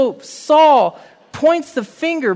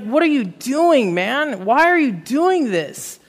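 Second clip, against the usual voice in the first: exasperated prophet, mildly acted, pitched up; angry frustration; 3 semitones higher than usual. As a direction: retell an exasperated challenge with raised pitch. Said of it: "Samuel is just angry. He is frustrated".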